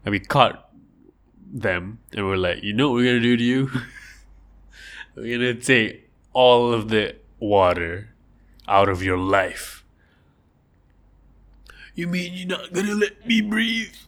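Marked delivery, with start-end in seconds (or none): 2.6-9.8 taunting fish captor. Pretend. 12.0-14.0 a tiny frightened fish, pitched way up; squeaky fish voice. Pretend. Caught fish pleading with its captors, high and squeaky.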